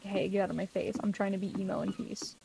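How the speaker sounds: mock passive-aggressive brush-off, softly. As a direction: imitate a moody kid quietly brushing someone off. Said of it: "passive-aggressively being like".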